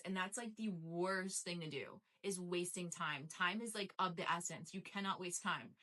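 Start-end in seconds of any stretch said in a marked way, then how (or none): 4.7-5.7 breathless, winded delivery; talking while out of breath. Real, not acted. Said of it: "running out of breath".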